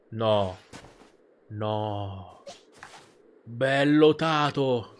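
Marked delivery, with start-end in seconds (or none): 3.4-4.9 affectionate. Real, not acted. Cooing at his Pokémon.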